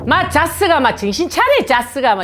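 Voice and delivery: loud, high Gyeongsang-dialect teasing; rough Gyeongsang banter. Retold or imitated. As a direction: bark it like a Gyeongsang buddy. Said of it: "이런 공감이 아니고".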